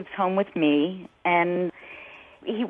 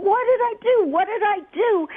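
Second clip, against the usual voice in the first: much higher-pitched, imploring retelling; retold pleading; 13 semitones higher than usual. Mother retells asking her angry son what happened, high-pitched pleading. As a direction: replay your helpless plea in a high voice.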